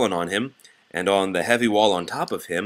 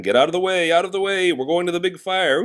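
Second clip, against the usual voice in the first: loud, high urgent call; a fire engine shouting at traffic to move; calling out loudly; 10 semitones higher, 5 dB louder than usual. Acted. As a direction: clear the road ahead. Siren clears the road.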